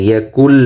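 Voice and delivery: "ইয়াকুল" straight into L, no N; silent nun. Shown as a demonstration. Teacher showing the silent letter, "ইয়াকুল" with held L. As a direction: say "ইয়াকুল" holding the L, the nun dropped. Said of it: "নুনটির উচ্চারণ হবে না".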